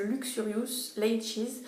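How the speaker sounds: English product name in a French accent; accent français en anglais. Real, not acted. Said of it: "Excusez-moi pour mon accent". (accent français en anglais, débit lent)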